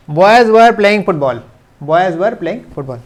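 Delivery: "boys were playing football" read very slowly, "were" as "wər"; slow model reading. Shown as a demonstration. Teacher reading the example aloud slowly. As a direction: spell it out slowly for students. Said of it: "तो इसको कैसे पढ़ेंगे".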